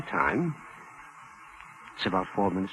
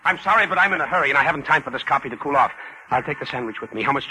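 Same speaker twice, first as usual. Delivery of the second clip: impatient hurry; 4 semitones higher, 3 dB louder than usual. Acted. Hurried doctor demands his order.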